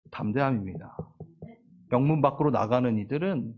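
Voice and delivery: ordinary delivery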